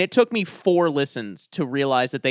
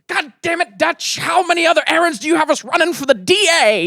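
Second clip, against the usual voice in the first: much higher, louder mock cop voice; gruff TV cop line; 13 semitones higher, 7 dB louder than usual. Quoting a cop from The Shield in a put-on voice. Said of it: "what is the line?".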